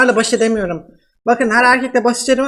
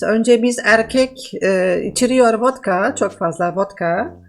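man doing a woman's voice. Pretend. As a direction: fake Russian woman, broken Turkish. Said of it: "nasıl kadın sesi yapıyorum".

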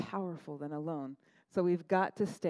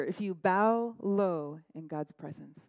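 slow reading; slower than usual. Real, not acted. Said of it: "read slowly then repeated".

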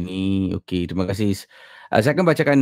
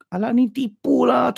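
mocking skeptic. Mocking a doubting listener.

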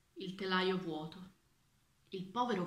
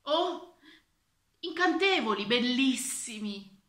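exclaiming admiration; 4 semitones higher, 6 dB louder than usual. A narrator's reading. Old minister praising cloth he cannot see, gushing. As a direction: gush as if enchanted. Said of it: "esclamò il vecchio ministro".

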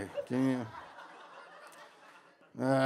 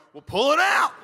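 high, loud shouted retort; acting out an angry yell; mock yelled comeback; 14 semitones higher, 8 dB louder than usual. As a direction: shout it back like a rival in a fight. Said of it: "the other guy's going".

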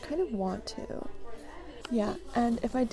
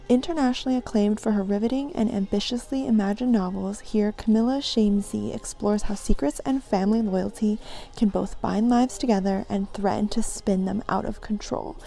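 louder, steady book-blurb reading; blurb read-aloud; 6 dB louder than usual. Acted. Shopper reading a book's blurb to viewers, louder read-aloud. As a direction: read the jacket copy out loud.

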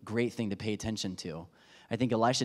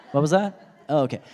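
startled reply; 4 semitones higher, 10 dB louder than usual. Retold or imitated. Pretending he heard from God.

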